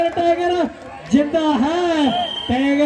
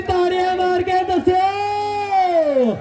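calling out; 2 semitones higher, much slower than usual. Real, not acted. Commentator calls crowd to clap.

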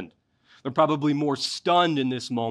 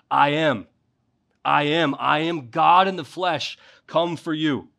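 proclaiming; 3 semitones higher, 3 dB louder than usual. Acted. Preacher's climactic proclamation of Jesus.

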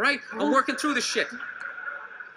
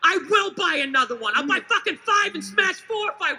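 mock defiant; 3 semitones higher than usual. Acted fight with wife.

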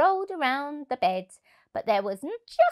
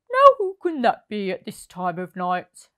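puzzled Percy; 7 dB louder than usual. Acted. Percy wondering at door.

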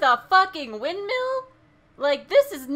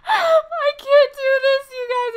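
near tears; 8 semitones higher, 6 dB louder than usual. Real, not acted. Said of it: "I'm gonna cry".

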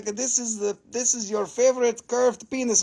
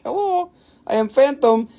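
phantom voice; 6 semitones higher than usual. Pretend. Voicing the phantom in crystal.

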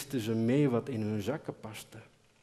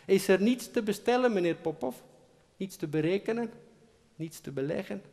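higher, louder pleading calls upward; calling up; 8 semitones higher, 5 dB louder, faster than usual. Acted. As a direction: call up hopefully to the boss. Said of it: "handen als een toeter om hun mond". (hoog roepend naar boven)

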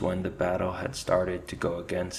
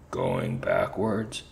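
much lower, slow growling rat chief; gruff commander; 12 semitones lower, slower than usual. Acted. Rat commander echoing his soldier in disbelief, low growl.

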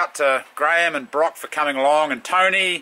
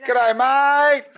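high, excited dog's voice; high, giddy pet voice; voicing the dog; 10 semitones higher, much slower than usual. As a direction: speak as the happy dog greeting everyone. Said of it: "She was".

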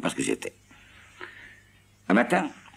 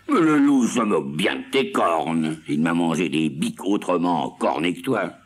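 plus fort, sermonneur; Seguin qui gronde; 3 semitones higher, 4 dB louder than usual. Acted. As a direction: gronder la chèvre. (Seguin gronde, plus fort)

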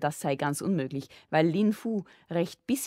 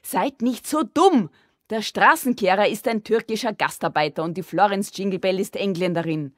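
raised, high exasperated voice; indignant call; 3 semitones higher, 7 dB louder than usual. A narrator's reading. Sissi sets father and brother straight, indignant call. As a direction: call it out, loud and higher. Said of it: "Sissi rief".

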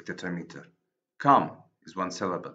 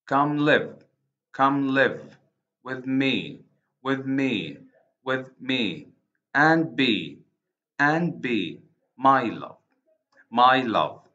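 louder, measured chant of "Come live, with me, and be, my love"; iambic scansion; 2 semitones higher, 4 dB louder, slower than usual. Shown as a demonstration. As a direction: beat out each two-word foot with a pause after it. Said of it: "starts with an unstressed syllable".

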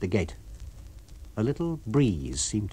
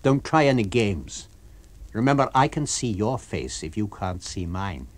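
firmly. Acted. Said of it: "and then firmly".

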